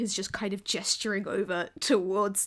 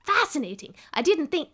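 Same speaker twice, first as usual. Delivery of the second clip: failed attempt at a German accent, pitched up; badly faked German accent, louder; 5 semitones higher, 4 dB louder than usual. Scientist marvelling at automatons, botched German accent. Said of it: "how do you fucking do a German accent".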